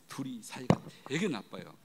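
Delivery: soft confiding whisper; whispered aside. Real, not acted. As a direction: let them in on a secret. (속삭이듯 털어놓는 말)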